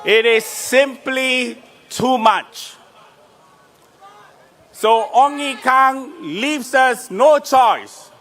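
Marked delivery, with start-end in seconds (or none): 4.7-8.1 high, loud rally cry; rally shout. Real, not acted. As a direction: rouse the crowd, shouting. Rally chant leading crowd.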